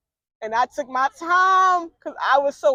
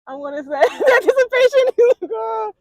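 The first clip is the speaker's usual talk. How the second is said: excited suspense; 9 semitones higher, 5 dB louder than usual. Real, not acted. Suspense of guessing.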